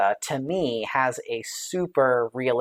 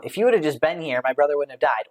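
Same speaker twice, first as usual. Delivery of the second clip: a touch of reproach, pressing on would; half-acted blame, not shouted; mildly accusatory; faster than usual. Reading Martha's words to Jesus as mild mock accusation. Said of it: "she could have said it like".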